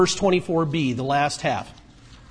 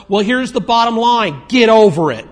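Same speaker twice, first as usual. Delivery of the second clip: forceful rebuke; 3 semitones higher, 6 dB louder than usual. Real, not acted. Preacher rebuking tired volunteers.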